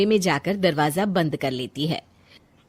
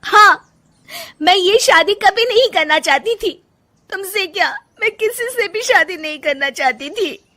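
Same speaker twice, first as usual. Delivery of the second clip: much higher, shouting it out; angry outburst; 10 semitones higher, 6 dB louder than usual. Acted. Wife shouting at husband about her forced marriage. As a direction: explode with everything held back.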